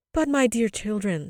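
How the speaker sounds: loud, high start, falling away; astonished. A narrator's reading. Mother hears both children's wish, in astonishment. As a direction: protest in amazement. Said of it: "said the mother in astonishment".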